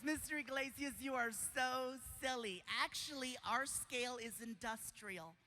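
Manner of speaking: lightly voiced sweet nurse; amused nurse. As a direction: tease gently as the nurse. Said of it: "She starts laughing. She goes".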